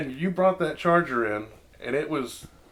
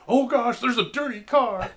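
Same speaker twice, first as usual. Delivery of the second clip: high, scandalised gasp at the dirt; mock horror of a prim showgoer; lightly voiced appalled spectator; shocked onlooker; 7 semitones higher, slower than usual.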